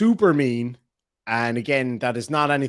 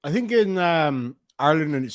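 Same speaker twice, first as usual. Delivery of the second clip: mouth full. Real, not acted. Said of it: "sorry, I'm eating chocolate peanuts right now".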